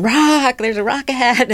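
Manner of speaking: imitating a high, loud warning yell; retold yell. Hiker warning guides while running down the mountain, retold yell. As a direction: call out the hazard, re-enacted high and loud. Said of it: "and then I would be yelling".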